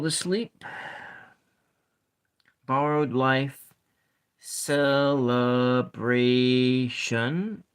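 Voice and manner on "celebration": drawn-out syllable check; slowly sounded out. Shown as a demonstration. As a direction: stretch Celebration. slowly with a rising end. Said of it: "Maybe it's celebration".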